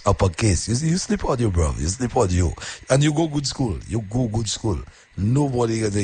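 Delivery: high excited Caribbean voice; bright high-pitched island speech; uppercase voice. Shown as a demonstration. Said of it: "I speaking in uppercase now".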